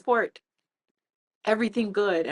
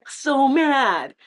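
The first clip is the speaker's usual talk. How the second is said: mock mad; 6 semitones higher, 6 dB louder than usual. Retelling her anger at statistic.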